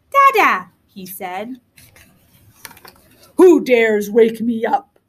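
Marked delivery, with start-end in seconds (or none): 0.1-0.7 put-on high, loud baby dinosaur call; little dinosaur. A narrator's reading. Newborn dinosaur speaking his first word, high baby call. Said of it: "spoke his first word". 3.4-5.0 slow, booming dinosaur demand; roaring big dinosaur. A narrator's reading. Big dinosaur woken in his cave, roaring. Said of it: "roared the big dinosaur".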